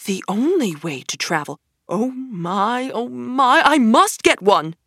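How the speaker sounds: lost in a dream, swelling with desire; lightly voiced dazzled Toad; entranced. A narrator's reading. Toad entranced by motor car.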